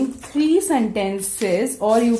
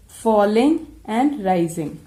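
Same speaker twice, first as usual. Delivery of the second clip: normal talking voice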